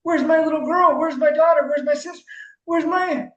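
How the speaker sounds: a hint of panicked parents; voicing the family. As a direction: play the lost family. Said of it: "they're like".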